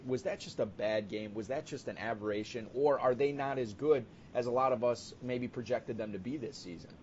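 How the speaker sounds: ordinary talk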